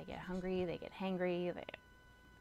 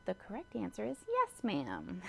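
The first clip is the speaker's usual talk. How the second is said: higher, louder mock-polite game show correction; mock quiz host; 4 semitones higher, 5 dB louder than usual. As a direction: play a cheerful quizmaster telling the kid it's wrong. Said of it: "my kids hear me say the most often".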